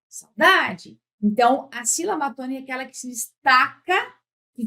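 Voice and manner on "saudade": "saudade" chamado, com "DA" em destaque; chamando a palavra. Shown as a demonstration. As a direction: chame "saudade" como quem chama alguém. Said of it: "Ou chama". ("saudade" em tom de chamado)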